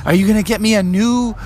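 lightly voiced eager kid frog; Froggy. Froggy guesses at the surprise, eager child voice. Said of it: "And Froggy said".

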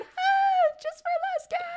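very high, hammed-up announcer cry; mock TV crew. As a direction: squeal the reveal like a cheesy prank host. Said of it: "they went".

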